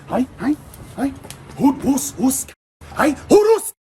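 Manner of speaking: rising calls across the lane, the last one a high shout; calling out. Retold or imitated. Vlogger re-enacting calling out in the lane, building shout.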